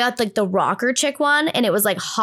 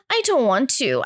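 imitated mildly scared kid's refusal; 3 semitones higher than usual. Child told to open the closet, mildly frightened refusal. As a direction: balk like a nervous little girl. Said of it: "I was, like, so scared".

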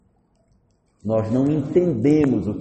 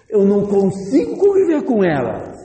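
higher-pitched acted outburst; exasperated protest; 7 semitones higher, 4 dB louder than usual. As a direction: plead your case to God, at the end of your rope. Homem protesta contra a ordem de Deus. (protesto exasperado, voz mais aguda)

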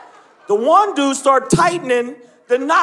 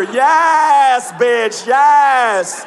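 sassy zombie; 3 semitones higher, 4 dB louder, much slower than usual. Retold or imitated. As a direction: hype it up like a fabulous zombie. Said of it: "you hear 'em coming 'cause you hear".

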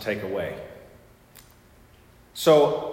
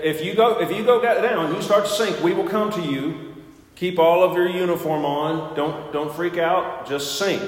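barked instructor orders, higher and louder; drill instructor orders; 6 semitones higher, 4 dB louder than usual. Retold or imitated. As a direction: shout it like a drill instructor at the pool. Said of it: "So he said".

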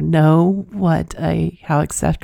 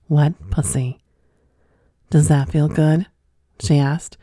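measured read-aloud storytelling with pauses between phrases; unhurried narrator delivery; story narration. A narrator's reading. Reads a listener's story aloud.

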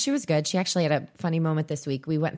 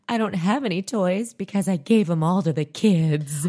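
mock child retort; 3 semitones higher, 5 dB louder than usual. Daughter's retort voiced.

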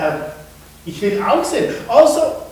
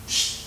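shushing; 5 dB quieter than usual. Acted. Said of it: "sie sagten".

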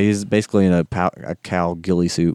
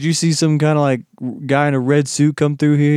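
higher, quick henchman voice; goon asking around; 7 semitones higher than usual. Retold or imitated. Henchmen questioning the old boatman, higher goon voice. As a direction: play a dim thug asking questions.

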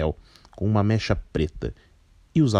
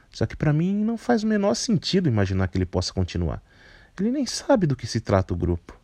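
put-on higher, cheeky, grumpy girl voice; grumpy young woman; 4 semitones higher than usual. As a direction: rattle it off like a fed-up teen. Barata responds.

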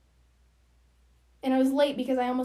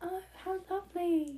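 put-on British accent; 6 semitones higher than usual. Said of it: "You should do British".

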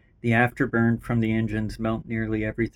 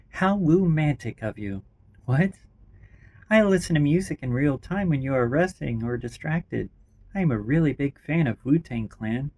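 character voice; 4 semitones higher, 4 dB louder than usual. Acted.

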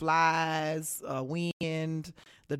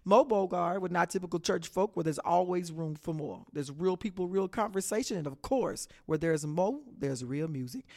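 radio tagline. Shown as a demonstration. Radio host's retake of her show tagline, announcer voice. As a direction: sell it like a station ID. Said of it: "let's try that one more again".

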